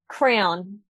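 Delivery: crayon as one syllable, like "crown"; regional pronunciation. Shown as a demonstration. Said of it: "how we both said crayon".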